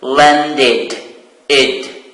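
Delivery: "landed" with an extra id syllable at the end. Shown as a demonstration. Teacher modelling the ending of "landed" for students. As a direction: say "landed" and add id. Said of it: "it is pronounced".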